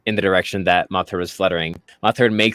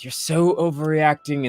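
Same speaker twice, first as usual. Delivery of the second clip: dismissive guard; 6 semitones higher than usual. Acted. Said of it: "the other one goes".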